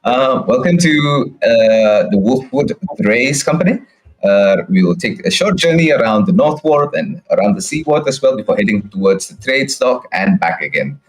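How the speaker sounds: a hint of a chirpy carriage announcer; cheery tour driver. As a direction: sell the ride like a jolly host. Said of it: "and he just goes".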